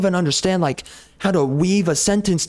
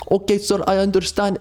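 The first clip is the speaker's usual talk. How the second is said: a slightly higher, lightly put-on Indian accent; a faint Indian call-center agent voice; mock Indian accent; 3 semitones higher than usual. Caller mocking the Indian agent with a faint Indian accent. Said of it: "they say a bunch of broken English".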